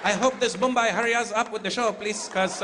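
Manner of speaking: imitating a Filipino audience member; mock Filipino accent, high and eager.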